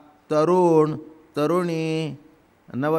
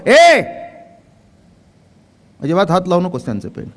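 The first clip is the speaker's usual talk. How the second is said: a loud sharp "ए!", then a fast warning; sharp scolding; 3 dB louder, faster than usual. Retold or imitated. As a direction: snap at the boy like a strict mother. Mother scolding son over pen.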